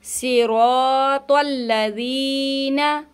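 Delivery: slow, सिरातल with heavy swad and ṭa; thick emphatic letters in सिरातल. Shown as a demonstration. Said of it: "तल लजीना नहीं है". (सिरातल में मोटे हरूफ़)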